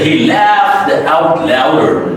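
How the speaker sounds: 'laughed' slowed, its ending said wrongly; slow mistaken reading of 'laughed'; mispronounced ending. Shown as a demonstration. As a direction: demonstrate a faulty, drawn-out 'laughed'. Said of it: "it's a mispronunciation".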